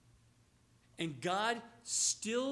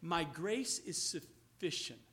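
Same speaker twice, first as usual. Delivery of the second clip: God's calm assurance; 5 semitones lower, 3 dB quieter, slower than usual. Acted. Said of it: "God is saying".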